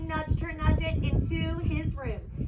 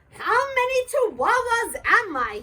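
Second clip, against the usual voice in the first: higher, louder wondering kitty voice; wondering aloud; 7 semitones higher, 6 dB louder than usual. Acted. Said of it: "he wondered out loud".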